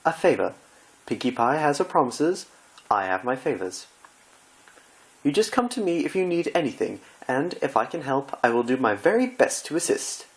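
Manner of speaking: high, anguished theatrical gasp; dismayed Rarity. Acted. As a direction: wail as if the world is ending.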